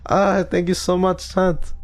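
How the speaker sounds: high-pitched fake French accent; mock French accent. Streamer mocking Zali thanking chat, high fake French accent. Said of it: "I can't copy his accents".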